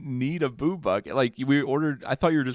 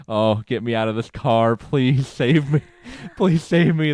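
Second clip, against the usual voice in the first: mock pleading; 5 dB louder, slower than usual. Cringing in the passenger seat.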